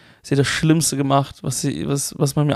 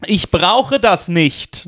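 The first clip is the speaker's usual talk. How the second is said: slow, lightly hammed-up Hochdeutsch; joking, drawn-out Hochdeutsch retort; exaggerated standard German; 3 semitones higher, much slower than usual. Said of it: "Ich hab auf Hochdeutsch ge".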